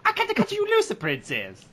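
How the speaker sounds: very high, desperate pleading; high anguished character voice. Acted. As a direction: beg not to lose anyone.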